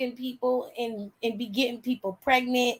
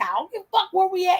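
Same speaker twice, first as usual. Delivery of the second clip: fast, higher, heated comeback; retold angry dad; 8 semitones higher, much faster than usual. Dad answering his daughter on the church bus, heated and fast. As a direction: snap back as the fed-up dad. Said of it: "He said".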